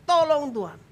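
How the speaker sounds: high, pleading call to God; crying out for help. Shown as a demonstration. Preacher models plea for those without words, high cry. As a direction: demonstrate a cry for rescue. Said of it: "yang perlu Anda lakukan yaitu teriak".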